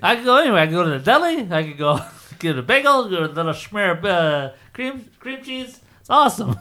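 high, cheesy commercial voice; mocking fake ad guy. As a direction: gush like a fake ad.

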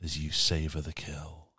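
sultry narrator. Shown as a demonstration. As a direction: purr it out like a sultry audiobook narrator. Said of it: "I can even do it in my sexy voice".

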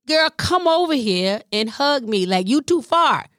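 mild imitation of mom. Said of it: "She was saying".

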